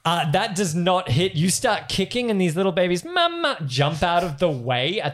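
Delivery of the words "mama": put-on squeaky baby voice.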